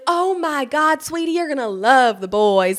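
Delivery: high, gushing sweetie voice; a touch of a bubbly mother-in-law; mock excited mother-in-law. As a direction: imitate an over-eager boy mom cooing. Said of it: "She's like".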